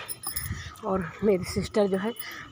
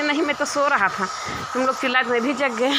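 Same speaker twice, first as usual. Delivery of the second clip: raised, fast protesting voice; defensive denial; 5 semitones higher than usual. Retold or imitated. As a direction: protest innocence, pitched up and quick. Brother-in-law denies, raised defensive voice.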